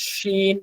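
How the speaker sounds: শিন with a firmer opening; harder shin. Shown as a demonstration. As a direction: give শিন a stronger hush. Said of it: "এটা আর একটু শক্ত হবে".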